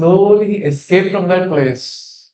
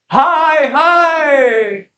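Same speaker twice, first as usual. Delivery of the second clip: high call; 9 semitones higher than usual. Acted. Brahmana chanting calls out.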